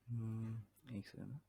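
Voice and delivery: audio fading to near silence; faint broken call line; call dropping out. Real, not acted. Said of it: "आवाज cut रही है".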